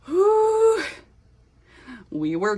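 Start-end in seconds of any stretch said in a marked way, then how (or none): 0.1-0.8 a loud, very high drawn whew. Real, not acted. Shocked by an old comment, a loud high whew.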